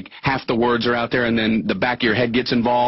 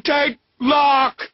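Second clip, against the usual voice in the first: flustered mix-up; 9 semitones higher than usual. Retold or imitated. Jumbled farewell mix-up.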